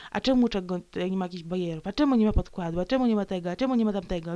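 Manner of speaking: imitating nagging listeners; string the questions out as a mocking nag; mock complaining. Imitating listeners who grumble about the recordings, mock complaining. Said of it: "I potem marudzą".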